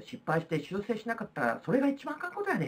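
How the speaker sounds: put-on casual Kansai-accented paraphrase, rising at the end; Kansai dialect. Teacher retells Confucius's saying to students, in Kansai dialect. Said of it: "関西弁になってますけど".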